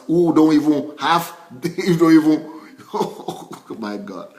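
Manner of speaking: breaking into laughter mid-sentence; laughing. Real, not acted. Talking of people like us, laughing. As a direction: laugh through it and trail into a sigh of disbelief.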